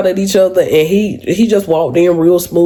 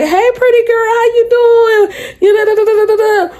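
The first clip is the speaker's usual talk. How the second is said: cheerful regulars. Retold or imitated. Regular customers greeting her at the counter, sing-song and high. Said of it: "And they like".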